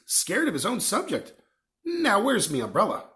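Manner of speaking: lightly voiced gruff gamekeeper, cheerful; a hint of big friendly Hagrid. Hagrid boasting to Harry, lightly voiced.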